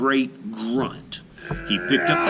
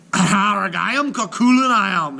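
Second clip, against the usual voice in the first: loud high growling giant bellow; giant's roar; 11 semitones higher, 6 dB louder than usual. Acted. Giant boasting to Una, loud growling roar. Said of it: "he cried".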